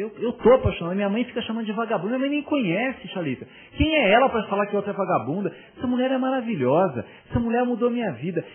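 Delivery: a retold teenager, near tears and annoyed; tearful irritated teen. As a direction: imitate the teenage son pouring out his heart, upset with his mom. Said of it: "com lágrima nos olhos, assim, meio irritado com a mãe".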